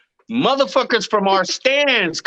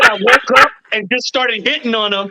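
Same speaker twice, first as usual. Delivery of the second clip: laughing while telling; 3 semitones higher, 4 dB louder than usual. Real, not acted. Retelling through laughter.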